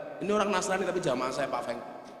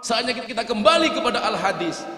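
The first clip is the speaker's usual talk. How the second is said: higher-pitched mock rallying cry; raised voice, slogan-chanting parody; imitated shouting; 5 semitones higher, 4 dB louder than usual. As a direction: mimic zealots crying out a slogan. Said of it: "teriak-teriak seperti itu".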